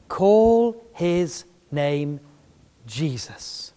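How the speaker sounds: a reverent slow announcement; solemn angel. Retold or imitated. Angel to Joseph, very slow and reverent. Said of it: "The angel spoke to Joseph and said".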